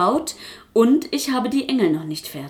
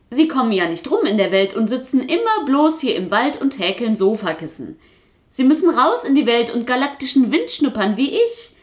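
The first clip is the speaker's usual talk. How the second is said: boastful puppet; 3 semitones higher than usual. Acted. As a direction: puff yourself up like a know-it-all puppet.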